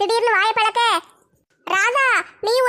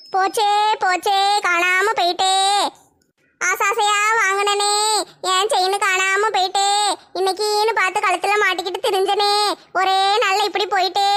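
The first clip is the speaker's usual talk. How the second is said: drawn-out, hammed-up wailing over a lost chain; a slow, hammed-up wail; slow mock lament. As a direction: mourn it slowly like a dirge, half in jest. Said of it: "ஒப்பாரி வச்சுக்கிட்டு இருக்கா".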